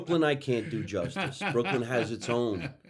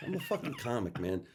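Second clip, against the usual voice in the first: laughing; 5 dB quieter than usual. Real, not acted. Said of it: "Don't make me laugh".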